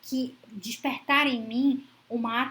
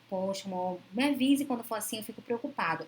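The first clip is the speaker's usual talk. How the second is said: gentle concern. Retold or imitated. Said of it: "Olha o tom da preocupação".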